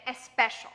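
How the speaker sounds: especial with an eh sound before the S; wrong leading e. Shown as a demonstration. Teacher showing the common mistake on especial. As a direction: add an eh in front of especial. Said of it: "you might say especial".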